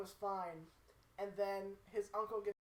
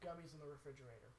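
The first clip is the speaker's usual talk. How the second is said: low, hushed imitation of earnest advice; understated, deadpan retold recommendation; confiding advice; 7 semitones lower, 14 dB quieter than usual. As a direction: drop it low and quiet, like a solemn tip. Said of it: "he's like".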